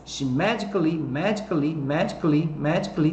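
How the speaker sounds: "magically" said as "magic-lee"; dropped A. Shown as a demonstration. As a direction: drill "magically" in three syllables, without the A. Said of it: "tira fora o A aqui".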